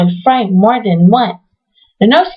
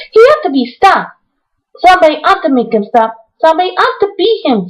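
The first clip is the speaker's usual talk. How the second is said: rising, faster angry outburst, high; angry outcry; 5 semitones higher, faster than usual. Acted. Mary crying out against Colin's screaming, angry. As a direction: stamp and demand he be stopped. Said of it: "she cried out".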